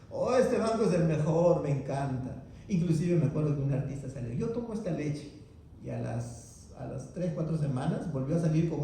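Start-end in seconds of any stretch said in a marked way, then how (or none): 0.1-2.4 lightly voiced celebrity in a bank ad, upbeat; breezy fake endorsement, half-hearted; mock ad voice. Celebrity promoting a bank he never used, mock ad voice. 4.3-5.3 higher, soft little milk-ad line; mock ad voice. Celebrity endorsing milk in a TV ad, mock pitch.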